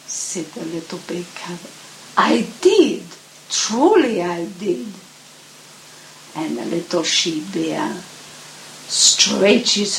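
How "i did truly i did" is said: insistent cub. Acted.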